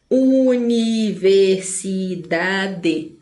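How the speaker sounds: UNIVERSIDADE very slowly as u, ni, ver, si, da, de; split into syllables. Shown as a demonstration. Teacher showing polysyllables, universidade split very slowly. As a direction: draw universidade out beat by beat, u, ni, ver, si, da, de. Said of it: "com quatro ou mais".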